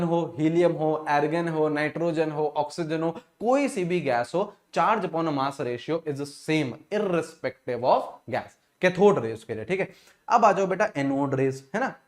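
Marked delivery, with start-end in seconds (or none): 4.7-8.6 each word read out slowly for note-taking; slow dictation. Acted. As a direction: dicteer het langzaam en duidelijk.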